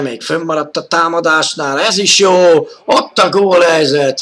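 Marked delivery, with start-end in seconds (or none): 1.8-4.2 excited. Real, not acted. Chance on goal, commentator rises.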